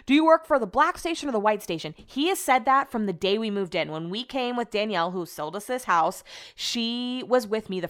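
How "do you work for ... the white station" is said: mock drunk neighbor.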